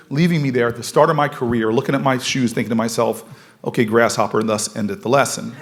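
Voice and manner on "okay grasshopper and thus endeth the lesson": mock wise master. Mock sage lesson to himself.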